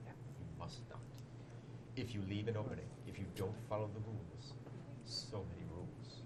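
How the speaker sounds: ominous dramatic reading. Shown as a demonstration. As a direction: read it like a creepy storyteller. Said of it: "I will read it in dramatic voice".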